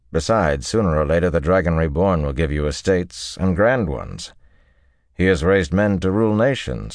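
lightly voiced composed officer; deliberate, assured report; Talmanas, unruffled.

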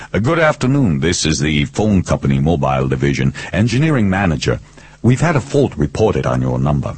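lightly played engineering manager; a hint of customer-service patter; phone company pose. Detective posing as engineering manager.

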